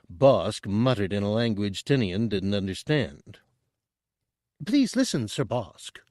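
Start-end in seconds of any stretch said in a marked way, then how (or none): 4.7-6.0 high, fast eager chatter; high, quick Chadrafan. A narrator's reading. Tooty selling Chen to Bosk, high and quick. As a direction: rush the pitch like a nervous broker.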